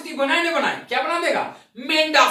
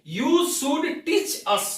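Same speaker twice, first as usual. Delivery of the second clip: slow english demo; 3 semitones higher, much slower than usual. Shown as a demonstration. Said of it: "क्या बोलते हैं?".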